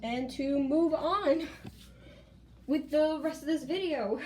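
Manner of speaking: choked up, pushing on through tears; holding back tears. Real, not acted. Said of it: "my tears".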